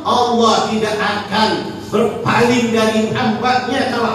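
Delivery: gentle sheikh promising forgiveness; reassuring sheikh. Acted. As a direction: comfort the sinner with hope.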